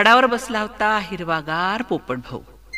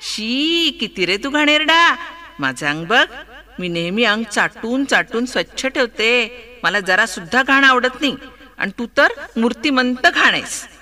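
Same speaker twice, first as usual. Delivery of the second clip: a lightly voiced prim cat, sneering; cat turning up her nose at dirt; understated snooty cat voice; mocking cat; 3 semitones higher than usual. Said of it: "मनीमाऊ फिसकन हसली".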